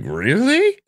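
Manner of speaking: put-on high squeaky voice as the girl. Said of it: "And she's like".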